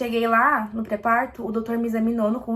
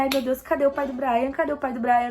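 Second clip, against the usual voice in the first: retold panic; 2 semitones higher than usual. Panicking, father missing.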